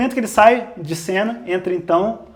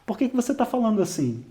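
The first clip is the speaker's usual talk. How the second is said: softer, lower accusing voice; 3 semitones lower, 5 dB quieter than usual. Retold or imitated. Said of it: "ela abaixa o nível". (acusação em voz baixa, mais suave e mais grave)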